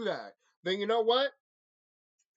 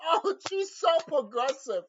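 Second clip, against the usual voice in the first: mocking high voice; 6 semitones higher than usual. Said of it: "the other Velma".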